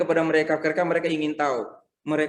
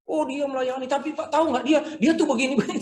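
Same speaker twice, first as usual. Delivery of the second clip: gossiping churchgoer; 9 semitones higher than usual. Retold or imitated. Mimics jealous gossip about servant.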